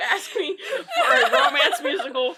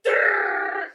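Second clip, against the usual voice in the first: mock explosion noise; 9 semitones higher than usual. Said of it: "I expect, yeah, like".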